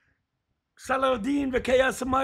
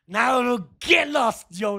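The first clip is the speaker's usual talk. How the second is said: mock dismissal; slower than usual. Streamer jokingly telling a viewer to get lost, mock shout. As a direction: pretend to send them away, then take it back. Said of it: "Now, just joking".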